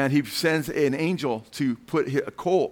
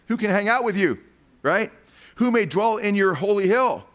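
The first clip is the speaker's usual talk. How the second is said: rising preaching fervor; 7 semitones higher, 4 dB louder than usual. Real, not acted. Preacher building on the psalm.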